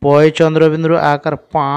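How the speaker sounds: পা with the a through the nose; nasal vowel. Shown as a demonstration. Teacher repeats for pupils, nasal a on পা. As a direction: nasalise and hold the final পা. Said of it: "উচ্চারণটা আমরা একটু নাকের মাধ্যমে করবো".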